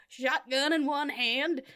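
a light, slow Southern drawl; southern accent. Retold or imitated. Joking about action heroes in a lightly put-on Southern accent. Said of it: "I'm doing a southern accent".

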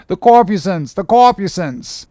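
high, awestruck shout; awed cry. A narrator's reading. Starbuck calling out the corpusants to the crew, awed cry. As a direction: point at the flames in wonder. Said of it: "cried Starbuck".

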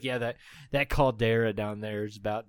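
lightly put-on southern voice; southern accent. Ghost bellman warning about a volcano, in a southern accent. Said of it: "he has, like, a southern accent".

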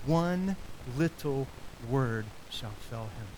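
slow, solemn recitation of a hymn verse; hymn recited. Acted. Preacher reciting Luther's hymn to congregation, slow and solemn. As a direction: speak the hymn slowly, like a vow. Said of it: "but I'll just say it".

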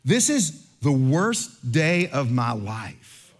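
slow, drawn-out self-pitying moan; mock despair. Traveler whines to the pastor about his lost laptop, slow self-pitying moan. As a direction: stretch every word like a tragic victim. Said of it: "he says this line".

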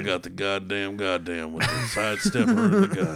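drawling Southern redneck accent, hammed up; Sam Elliott redneck voice. Bragging about his Chevy in a mock Southern redneck accent. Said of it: "my Sam Elliott redneck voice".

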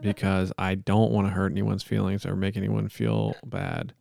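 measured, solemn monotone plea; earnest-sounding improvised prayer; mock prayer. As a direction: pray aloud with halting mock sincerity.

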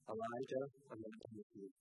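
soft, quiet, tender voice of God; gentle God. Acted. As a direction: speak low and softly, coaxing him out. God's gentle reply to Elijah.

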